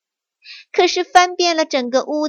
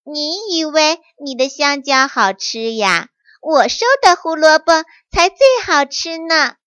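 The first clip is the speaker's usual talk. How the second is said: sulky little rabbit, rising to a louder retort; pouting; 4 semitones higher, 3 dB louder than usual. Acted. Little rabbit answering the monkey, pouting. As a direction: pout and show off the carrots. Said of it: "嘟着嘴巴说".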